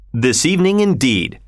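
even, falling, settled; unruffled falling reply; calm confirmation. Acted. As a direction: answer it coolly, closing the matter. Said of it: "replied Mister Fogg".

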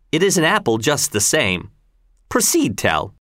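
governor Gessler. Acted. Governor goading Tell to accept the challenge, lightly taunting. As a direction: needle him with mild mock surprise.

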